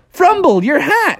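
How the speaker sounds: high acted cry of warning; hammed-up alarm; alarmed call. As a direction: call out urgently in a high cartoon voice. Froggy cries out in alarm.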